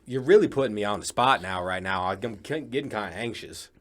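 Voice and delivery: tentative, badly faked Southern accent; unsure amateur Southern accent; attempted Southern accent. Shown as a demonstration. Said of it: "Was that Southern?".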